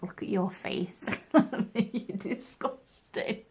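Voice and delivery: slow whispered self-insult; disgusted inner voice. Retold or imitated. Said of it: "right now I'm like".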